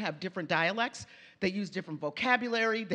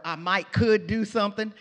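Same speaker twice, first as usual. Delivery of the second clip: louder, a hint of a Southern "might could"; Southern phrase; 7 dB louder than usual. Shown as a demonstration. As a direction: toss out the Southern double modal.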